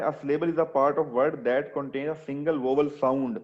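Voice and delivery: reads the definition very slowly; slow reading aloud. Shown as a demonstration. Teacher rereads the definition to students, slowly. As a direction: read it out slowly for the class. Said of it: "अब ऊपर definition देखो".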